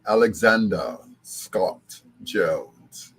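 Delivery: slow, stately British pronunciation; British accent. Acted. Greeting his grandson by his British name, slow British accent. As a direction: announce the name slowly in a put-on British accent. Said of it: "She gave him a British name".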